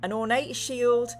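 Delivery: measured gamebook read-aloud; story narration. A narrator's reading. Streamer reads chat a tunnel scene and choice, story narration. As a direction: narrate it deliberately, then offer the choice.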